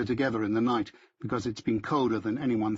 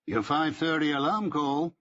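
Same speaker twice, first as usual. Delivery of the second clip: higher-pitched, with a smile in it; smiling voice; 4 semitones higher than usual. A narrator's reading. Barnes giving an alarm call by phone, smiling voice. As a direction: say it through an audible smile. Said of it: "he says with a smile in his voice".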